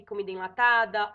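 ordinary talk

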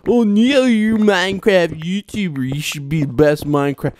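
high, put-on voice of a nagging viewer; mock critic voice. YouTuber mocking a viewer who scolds him, high mock whine. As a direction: parody a fan scolding him.

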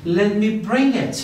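slow, stretched-out model sentence; teacher's slow drill; slow model phrase. Shown as a demonstration. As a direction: say it slowly for learners to copy. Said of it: "slow teaching model".

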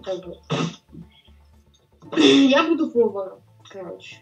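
ordinary talk

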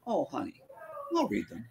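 soft and high, gently soothing; tender comfort. Retold or imitated. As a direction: reassure him like a loving wife. Wife comforting her husband.

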